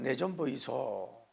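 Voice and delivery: slow Gyeongsang dialect; Gyeongsang accent. Retold or imitated. Pastor mimicking Gyeongsang folk, slow Gyeongsang accent. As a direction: say it slowly like a Gyeongsang local. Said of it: "경상도는".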